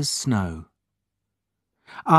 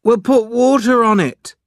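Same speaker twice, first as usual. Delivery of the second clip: high, loud helpful offer; 12 semitones higher, 6 dB louder than usual. A narrator's reading. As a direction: pipe up with a ready solution. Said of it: "Larry said helpfully".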